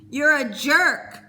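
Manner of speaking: slow, high, loud tearful insult; sobbing insult. A narrator's reading. Peter sobbing an insult at Cole, loud and slow. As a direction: spit it out through sobs. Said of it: "Peter sobbed".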